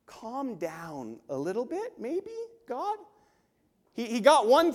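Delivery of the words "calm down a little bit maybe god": mock pleading advice.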